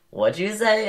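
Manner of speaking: high, startled what'd you say; shocked question. Retold or imitated. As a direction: sound stunned by what you heard. Classmates asking in shock.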